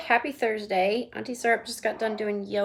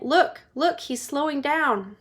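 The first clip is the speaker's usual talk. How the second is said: high, eager then slowing; excited boy; 5 semitones higher than usual. Acted. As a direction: point it out eagerly. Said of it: "said Charlie Bucket".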